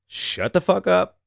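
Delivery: high, slow, drawn-out hush; inner voice hushing him. Retold or imitated. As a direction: stretch it out high to silence yourself.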